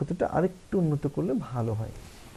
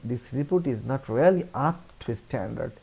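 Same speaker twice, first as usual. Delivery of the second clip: polite; much slower than usual. Shown as a demonstration. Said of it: "আমরা বলবো".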